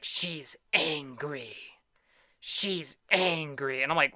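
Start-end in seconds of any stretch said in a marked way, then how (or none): 0.0-1.6 very slow, drawn-out mimicry of a child; imitated little niece. Niece explaining her black scribbles, imitated in a drawn-out voice. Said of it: "And she's like". 2.4-3.8 very slow, drawn-out mimicry of a child; imitated little niece. Niece explaining her black scribbles, imitated in a drawn-out voice. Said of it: "And she's like".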